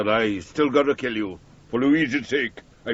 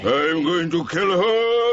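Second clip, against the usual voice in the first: angry outburst; 7 semitones higher, slower than usual. Acted.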